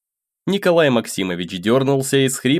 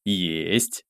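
compliant; 5 semitones lower, 7 dB quieter than usual. A narrator's reading. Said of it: "покладисто согласился я".

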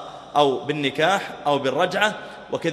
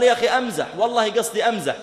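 mock protest; 6 semitones higher, faster than usual. Husband insisting to the scholars he was joking, high protest. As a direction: plead that it was just a joke, pitched high.

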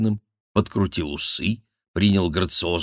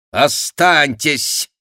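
loud, high, slow order; commanding; 9 semitones higher, 8 dB louder, much slower than usual. Acted. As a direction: stop him with a command. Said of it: "приказал король". (властный приказ, громко и медленно)

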